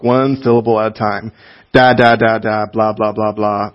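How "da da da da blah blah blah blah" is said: put-on baby talk. Shown as a demonstration. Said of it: "address them with baby talk".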